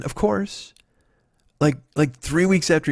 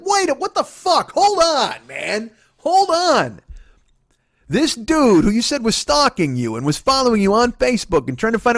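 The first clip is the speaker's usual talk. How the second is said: high-pitched, strained outraged protest; losing his mind; 7 semitones higher than usual. Retold or imitated. Boyfriend confronting girlfriend about the ride, losing it. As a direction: stretch the outburst high in disbelief. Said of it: "I lost my mind".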